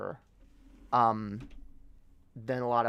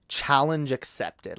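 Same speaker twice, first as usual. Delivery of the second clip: slow, emphatic declaration; slower than usual. Pretend. Taking on an accent challenge, slow and emphatic. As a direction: stretch out "Challenge accepted" for effect. Repeats challenge line for effect.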